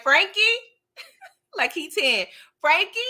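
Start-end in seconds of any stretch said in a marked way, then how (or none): 0.0-0.4 high, louder call, Frankie? rising; cute Frankie call. Retold or imitated. Uncle calls Franklin like a child, high call. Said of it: "he be like". 2.6-3.0 high, louder call, Frankie? rising; cute Frankie call. Retold or imitated. Uncle calls Franklin like a child, high call. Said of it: "he be like".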